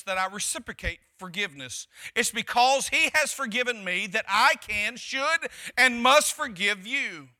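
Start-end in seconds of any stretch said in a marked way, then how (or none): 2.1-7.3 building emphasis. Acted. Preacher building.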